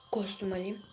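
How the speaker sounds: unvoiced whispered aside. Real, not acted. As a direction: whisper it just to yourself. Fısıldayarak tekrar ediyor. (fısıltıyla söylenen ara söz)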